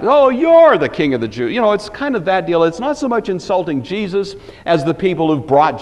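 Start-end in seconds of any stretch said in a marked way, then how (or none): 0.0-1.5 louder, higher sneering "Oh"; mock scorn. Shown as a demonstration. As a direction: scoff at the priests' choice of king. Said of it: "As if to say".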